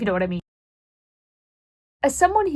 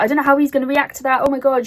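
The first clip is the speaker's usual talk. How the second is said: mock panic; 5 semitones higher, 4 dB louder, faster than usual. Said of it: "She, like, panicked".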